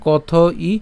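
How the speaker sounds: slow, measured reading of a Sanskrit line; careful model recitation; verse recitation. Shown as a demonstration. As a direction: recite word by word with long vowels. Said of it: "আমি আবার যদি প্রথম লাইনটা বলি".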